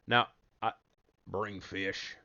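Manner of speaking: a light try at a brutish ogre voice; lightly voiced hulking fisherman. Gamer voicing the huge fisherman figure, light brutish voice. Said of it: "what kind of accent I wanna use for that guy".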